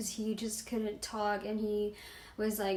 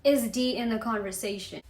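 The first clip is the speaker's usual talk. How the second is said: incredulous; 4 dB louder than usual. Retold or imitated. Telling how she questioned her boyfriend, incredulous. Retelling her shocked reaction to him.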